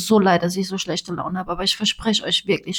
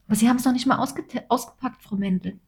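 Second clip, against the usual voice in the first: higher, pleading host voice; lightly voiced host; 5 semitones higher than usual. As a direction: protest as a gently voiced host. Imitating host protesting.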